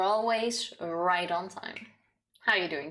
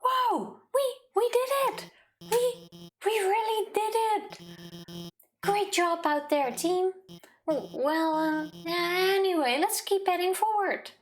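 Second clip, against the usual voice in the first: much higher, stammering with giddy relief; excited nervous scientist; 10 semitones higher, slower than usual. Acted. Scientist cheering the hero after the escape, high and stammering. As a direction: squeal with joy, then fumble back to business. Reading Alphys dialogue aloud.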